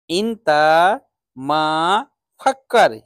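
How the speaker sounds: इंता मा फक्कर said slowly, word by word, each word set apart; slow teaching repeat. Shown as a demonstration. Teacher to students, repeating the phrase slowly word by word. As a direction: break इंता मा फक्कर into slow separate words for learners. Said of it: "सोचने को बोलते हैं फक्कर".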